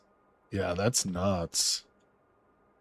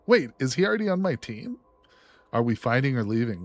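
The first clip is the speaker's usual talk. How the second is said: companion voice; 3 semitones higher, faster than usual. Pretend.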